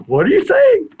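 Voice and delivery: high-pitched mock disbelief; imitated showman. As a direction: call back to the crowd in a put-on high voice. Acting Roy's reaction to the crowd.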